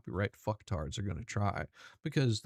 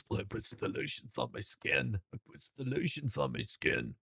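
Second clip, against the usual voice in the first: lightly voiced creepy murmur; mock a creepy line, softer; a hint of a creepy whisper; creepy quote; 4 dB quieter than usual.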